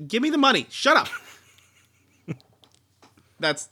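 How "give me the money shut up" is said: high, loud comic demand; mock greedy demand. Collector jumping at an offer for his collectible, mock greedy demand. Acting out grabbing the offered money.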